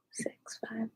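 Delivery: soft whispered countdown; whispered count. Acted. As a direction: breathe the numbers out.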